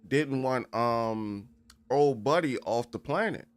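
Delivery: excited. Real, not acted. Excited reaction to story.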